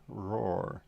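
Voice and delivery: half-hearted, spoken lion roar; mock roar. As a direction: imitate a small roar. Imitates the roar they expected.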